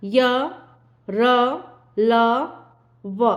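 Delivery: य, र, ल, व each said alone, with pauses between; letters sounded out. Shown as a demonstration. Teacher demonstrating य, र, ल, व to students, slow and separate. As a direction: sound out य, र, ल, व slowly so the tongue touches nothing. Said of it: "बोल के देख सकते हैं आप".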